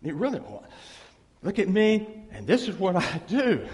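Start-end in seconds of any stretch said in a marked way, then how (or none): 1.4-3.7 mock boast. Mocking a self-righteous boast.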